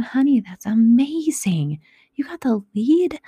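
hushed, thrilled disbelief; excited whisper. Real, not acted.

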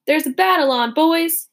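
officer yelling at the soldiers. Acted. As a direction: hurry the men onward. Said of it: "he yelled".

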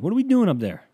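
high, loud exasperated yell. Retold or imitated. Comedian yelling high and loud at Jesus. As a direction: shriek the question up at God. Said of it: "I say that".

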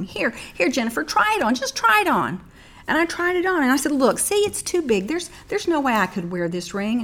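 high, fast flustered no-no-no; high protesting refusal. Retold or imitated. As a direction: bat the gift away, high and quick. Protesting to her mother.

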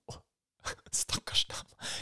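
rueful slow laughing words; laughing pity. Real, not acted. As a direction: laugh through it softly. Laughing pity after her breakdown.

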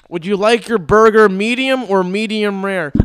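muffled robotic server through a mask; RoboCop voice. Retold or imitated. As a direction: talk like RoboCop behind a face shield. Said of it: "It's like fucking RoboCop talking".

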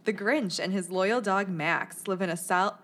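storytelling voice. Shown as a demonstration. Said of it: "I have a good storytelling voice here that I'm gonna use".

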